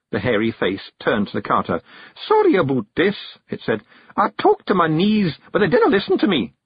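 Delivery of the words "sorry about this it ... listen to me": high, loud Scots voice; bearded stranger, apologizing. A narrator's reading. Hairy stranger excusing himself to the carter, high Scots. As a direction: apologize in a high Scottish brogue.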